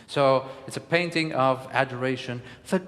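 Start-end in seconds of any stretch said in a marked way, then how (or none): 2.7-2.8 "The gods" lifted high, drawn out; adoring excitement. Shown as a demonstration. Coach showing adoration, a lifted "The gods". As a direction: greet the gods in awe.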